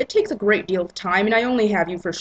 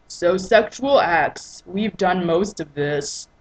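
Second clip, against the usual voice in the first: slow Christian voice; 3 dB louder, slower than usual. Acted. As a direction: take it slow and businesslike. Christian reads list.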